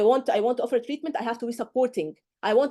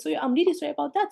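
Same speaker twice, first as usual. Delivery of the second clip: gently sincere, a little higher; sincere apology demo; 4 semitones higher, faster than usual. Shown as a demonstration. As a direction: say sorry like you mean it. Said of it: "Use this".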